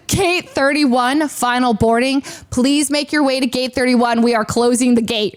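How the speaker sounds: measured gate-announcer delivery, slow opening; intercom announcement. Retold or imitated. Airline agent calling final boarding, intercom announcement. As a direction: announce it formally over an intercom. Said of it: "I hear over the intercom. It says".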